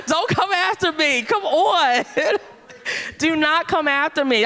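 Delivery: laughing plea. Real, not acted. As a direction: beg them off while laughing.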